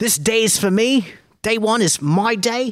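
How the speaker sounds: put-on Australian accent, pitched high. Retelling an obedience trainer's opening words at a seminar, in an Australian-sounding accent. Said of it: "Is she Australian?".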